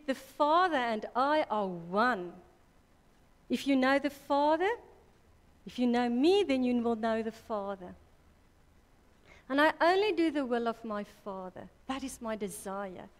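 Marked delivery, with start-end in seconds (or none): 0.0-11.7 louder, ringing preacher's proclamation; proclaiming loudly. Acted. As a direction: declare it to the congregation with full force. Preacher proclaims Jesus' words.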